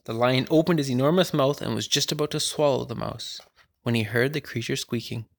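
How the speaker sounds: story reading. Acted. Older sibling reads story.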